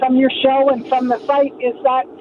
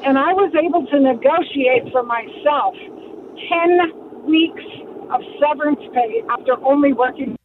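car speakerphone. Real, not acted. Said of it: "I'm driving hands-free".

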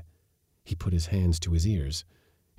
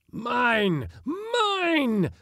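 very high, possessive wail; piercing, drawn-out claim; loud cry. A narrator's reading. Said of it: "cried a loud voice".

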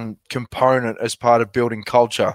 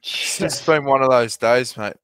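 weary, heavy hungover voice. Real, not acted. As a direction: speak like you're nursing a hangover.

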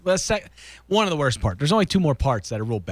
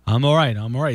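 fast nervous insistence you're fine; quick demo of reassurance; 3 semitones lower, 4 dB louder than usual. Shown as a demonstration. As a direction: say I'm all right, I'm all right, rushed and clipped together. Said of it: "this quickly".

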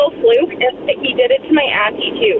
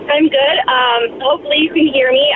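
car speakerphone. Real, not acted. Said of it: "you're on Bluetooth".

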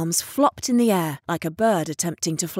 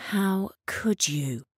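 reproachful; 3 dB quieter, slower than usual. Retold or imitated. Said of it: "I asked myself reproachfully".

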